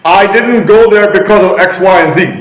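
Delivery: a confident, owning reply; assertive. Shown as a demonstration. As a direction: state it with ownership, no hedging. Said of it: "That's your reply".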